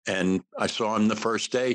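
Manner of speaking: ordinary talk, nothing marked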